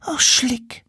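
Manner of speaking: very high, rueful little curse; Sophie cursing. Acted. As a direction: groan the curse as the seahorse girl. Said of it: "sagte Sophie". (sehr hoch, zerknirscht fluchend)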